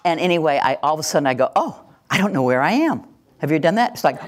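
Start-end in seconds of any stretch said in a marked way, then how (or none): 1.6-3.0 higher, startled "oh" of being lost; mock realization. Driver suddenly losing track on the road, startled.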